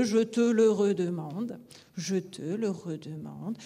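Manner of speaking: «je te le redemande» with a lift on «le», even beats; rhythmic full phrase after the build-up; scanned rhythm. Shown as a demonstration. Teacher completing the scansion drill. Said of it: "sur la scansion".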